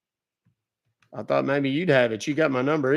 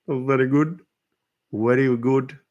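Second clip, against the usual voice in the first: mock savoring; 3 dB louder than usual. Praising the butter chicken.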